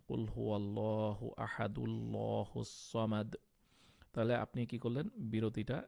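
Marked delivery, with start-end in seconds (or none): 0.1-3.4 read continuously. Shown as a demonstration. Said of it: "continue যদি পড়ে যান".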